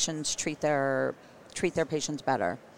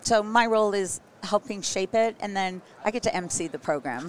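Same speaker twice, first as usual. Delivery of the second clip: scratchy voice; 3 semitones higher, 4 dB louder than usual. Real, not acted. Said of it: "hence my scratchy voice".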